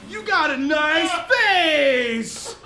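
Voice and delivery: Hank nachmachen, langsam und gedehnt; Imitation von Hank. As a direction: ein leicht übertriebener Hank-Tonfall. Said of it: "Do I fucking sound like that?".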